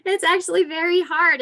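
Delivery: laughing through the words. Real, not acted. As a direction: chuckle out the answer. Laughing answer to kids' question.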